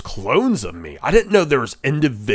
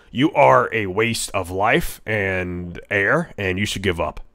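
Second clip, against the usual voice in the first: slow insult; 4 semitones lower than usual. Acted. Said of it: "Is what I like to say".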